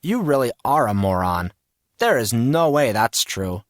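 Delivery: mildly indignant retort; affronted, insisting on the point; lightly acted indignation; sputtering indignantly. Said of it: "sputtering indignantly".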